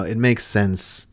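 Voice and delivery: soft, low, validating reassurance; compassionate. Shown as a demonstration. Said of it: "if you say it with compassion".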